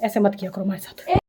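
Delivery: fake-cry to guilt the viewers; whiny pretend weeping; mock crying plea. Begging viewers for views, fake crying.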